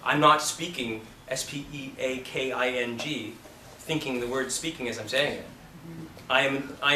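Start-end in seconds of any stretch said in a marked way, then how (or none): 0.4-1.0 spelled out. Shown as a demonstration. Spelling the word out aloud.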